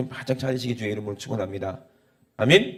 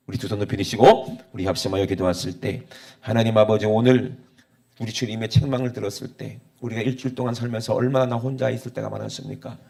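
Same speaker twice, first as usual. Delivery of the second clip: hushed, earnest prayer voice. Acted. Pastor begins leading prayer.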